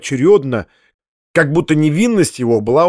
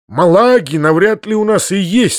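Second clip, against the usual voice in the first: mildly anxious, pitch lifted; a touch of worry, higher voice; worried; 6 semitones higher, 4 dB louder than usual. A narrator's reading. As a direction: say it with uneasy concern. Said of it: "сказал дядя с беспокойством".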